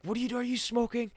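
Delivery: high mock dad. Dad catching son smoking, high mocking imitation. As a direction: squeak it out like a furious dad.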